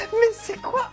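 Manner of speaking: high, incredulous cry; stunned disbelief. Real, not acted. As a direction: react in sheer disbelief. Reacting to an absurd dub.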